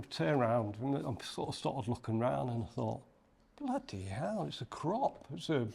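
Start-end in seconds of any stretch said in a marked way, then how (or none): 3.6-5.7 shocked realisation. Retold or imitated.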